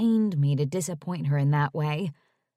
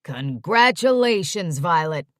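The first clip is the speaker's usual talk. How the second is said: booming; 6 dB louder than usual. Acted. Dad on the phone congratulating his daughter, booming. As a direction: boom it out, proud dad. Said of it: "his booming voice came on the line".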